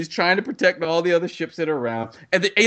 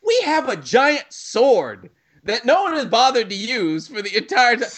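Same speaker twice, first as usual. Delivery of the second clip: higher, slow mock epiphany; hammy pilot realizing; 6 semitones higher than usual. Pilots suddenly remembering the sword, hammy and high. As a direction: ham up a dawning realization. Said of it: "only then does it dawn on them".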